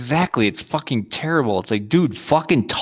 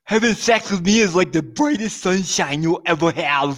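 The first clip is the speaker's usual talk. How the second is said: mock shout; 4 semitones higher than usual. Parody of Abby shouted.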